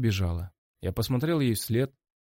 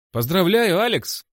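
higher, louder bright greeting; cheerful congrats; 10 semitones higher, 7 dB louder than usual. Acted. Ида congratulates Алекс outside, cheerful. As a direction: sing it out happily.

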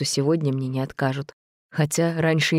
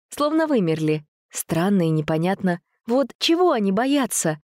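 put-on girl narrator voice; 5 semitones higher than usual. Dasha's POV narration, higher voice.

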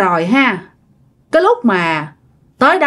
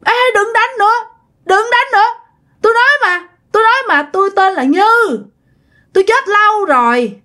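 much higher, whimpering plea to stop the beating; crying spirit; 9 semitones higher than usual. Retold or imitated. Possessed grandma begging the shaman to stop whipping, high and tearful. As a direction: beg like a weeping ghost. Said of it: "Vậy mà bà khóc".

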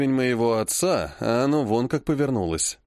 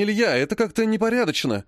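gentle reproach; 7 semitones higher than usual. Acted. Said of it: "мягко, но укоризненно сказала тётя Алла".

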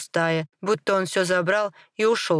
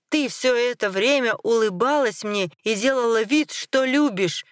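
accusation climbing higher in pitch; angry accusation; 5 semitones higher than usual. Acted. Betrayed husband confronts his second wife, accusation rising. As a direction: build the reproach, voice rising.

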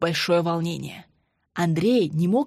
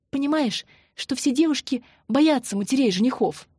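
higher, lightly voiced anxious woman; nervous young fiancée; 4 semitones higher than usual. Marina frets to Andrey about his mother, nervous and higher. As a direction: fret about meeting the in-laws.

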